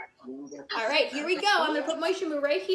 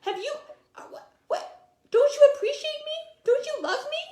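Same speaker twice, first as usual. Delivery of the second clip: higher and playful, a cow puppet pleading; 4 semitones higher, faster than usual. Acted. Teacher voicing the cow puppet for the children, high and pleading. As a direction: make the puppet beg to be loved. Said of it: "and it's saying".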